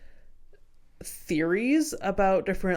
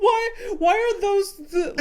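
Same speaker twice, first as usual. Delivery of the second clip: laughing repeat; 12 semitones higher, 5 dB louder than usual. Real, not acted. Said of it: "repeats the punchline".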